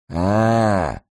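a high, loud, piercing wail of realisation; piercing high cry. A narrator's reading. Старик вскрикивает, поняв просьбу, пронзительно и высоко. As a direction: let out a shrill cry of understanding. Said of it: "высоким пронзительным голосом".

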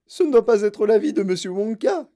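high, loud accusation; shouting. A narrator's reading. Mother accuses Wonka, shouting. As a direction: cry it out indignantly. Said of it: "cria Madame Gloop".

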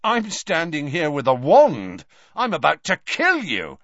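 put-on cornered boy insisting loudly; threatening. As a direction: push the threat hard. Malfoy threatening.

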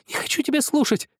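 put-on a crying child refusing to listen; screaming through tears. A narrator's reading. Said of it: "кричал сквозь слёзы".

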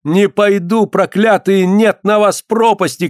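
high, desperate outcry; acted woman's screaming protest; screaming curses. A narrator's reading. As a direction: resist and curse them, stretching the end. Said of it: "кричала Алёна".

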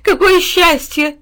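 high, loud, drawn-out delight; overjoyed dog. A narrator's reading. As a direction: exult slowly, stretching the words. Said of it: "не унимался пёс". (ликующий пёс)

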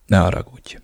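hushed, unvoiced sorry; whispered apology. A narrator's reading. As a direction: whisper it, ashamed. Apology after outburst.

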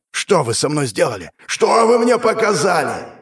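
a wounded demigod howling his question; demon's bewildered rage. A narrator's reading. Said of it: "Голос полубога походил ... эхо сотни голосов".

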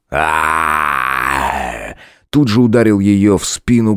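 гневный вопль. A narrator's reading. Shout heard.

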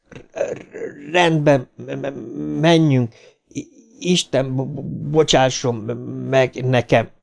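halting, stammered consent; broken, labouring stammer; heavy stutter. A narrator's reading. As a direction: stick on each first consonant. Stuttering boy reluctantly agrees.

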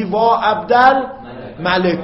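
slow lament, long final ا on عبدالملکا; drawn-out lament. Shown as a demonstration. Teacher demonstrating the lament form, slow. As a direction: stretch the ending like a wail. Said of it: "میگی".

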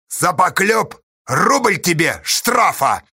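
slow, measured sentence; level. A narrator's reading. Astasha fining Pozdey for slander, measured. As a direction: hand down the fine deliberately. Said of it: "ровно сказал Асташа Поздею".

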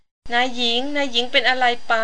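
slow, startled porters crying out; mild alarm for their fallen mistress; alarmed asking. A narrator's reading. Porters ask what happened to their mistress, alarmed. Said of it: "ถามกันให้แซดด้วยความตกใจว่า".

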